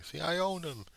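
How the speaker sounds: high mocking gloat; gloating mocker. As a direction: play the cruel tormentor crowing over his victims. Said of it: "someone else laughing their ass off saying".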